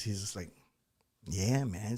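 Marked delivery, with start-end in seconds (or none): 1.3-2.0 lightly imitated laid-back guy, lower pitch; mock an easygoing, unbothered drawl; super chill. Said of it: "the super chill guy".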